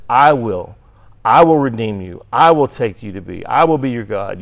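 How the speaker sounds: "I" given the weight at each promise; stress on I. Shown as a demonstration. Teacher reading God's promises to students, stressing "I". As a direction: lean on every "I". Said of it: "with the emphasis on the "I".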